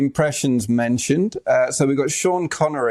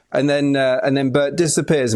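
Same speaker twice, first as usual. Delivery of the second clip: ordinary talk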